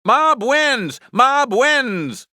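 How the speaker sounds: high-pitched victory call; triumphant calling out. Acted. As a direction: announce the win, repeating it excitedly.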